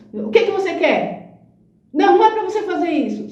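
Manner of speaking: high, impatient rebuke; a boss brushing off her question; curt scolding boss. Retold or imitated. (repreensão impaciente e bem aguda da chefe)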